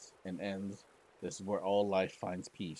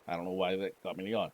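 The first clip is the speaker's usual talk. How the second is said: usual speaking voice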